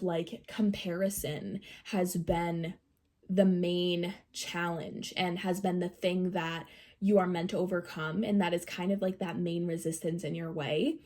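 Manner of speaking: blocked nose, sick voice; nasal voice. Real, not acted. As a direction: talk with a stuffy nose. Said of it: "excuse my, like, nasally voice right now".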